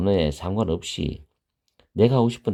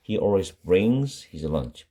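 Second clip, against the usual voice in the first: slow model sentence; much slower than usual. Shown as a demonstration. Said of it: "teacher repeats the model sentence".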